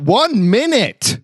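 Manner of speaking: high, slow shouted reply. Acted. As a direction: stall them with a call. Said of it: "I shout out".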